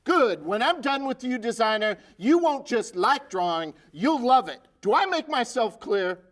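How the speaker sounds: drill sergeant. Acted. Sergeant berates design recruit.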